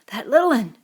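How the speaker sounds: a breathless cry of fear; gasped alarm. Acted. Piggy noticing the missing boy, gasping. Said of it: "gasped Piggy".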